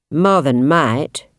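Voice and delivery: slow, smug and creepy; confident and creepy. Acted. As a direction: smile through it, very slowly. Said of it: "with a confident, creepy smile".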